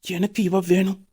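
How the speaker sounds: slow, soft, smitten murmur; hushed admiration. Acted. Man marvels at a pretty woman to himself, hushed admiration.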